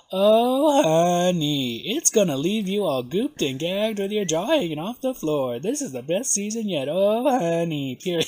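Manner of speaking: lightly voiced campy drag queen; a drag queen's voice. Host reads the queen's quote in her voice. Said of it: "I'm gonna (as Trixie)".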